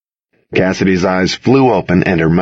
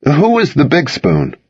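high, slow taunting question; teasing call; 7 semitones higher than usual. A narrator's reading. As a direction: call over a drawn-out tease. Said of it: "I called".

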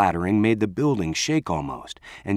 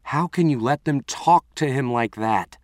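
demanding; 5 semitones higher than usual. Acted. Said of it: "I demanded".

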